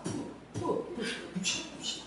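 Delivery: imitated puffs blowing water away, fading to breath; light mock spitting sounds; spitting rain off. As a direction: puff out the rainwater like a monk in the rain. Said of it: "어?".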